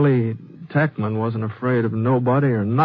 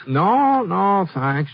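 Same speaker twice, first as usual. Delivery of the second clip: quick refusal; 9 semitones higher, 4 dB louder, much slower than usual. Acted. Ponset cuts off clerk's offer.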